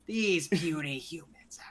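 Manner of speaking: whispered, slow villain line. Acted. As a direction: hush it as if turned down. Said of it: "turning down".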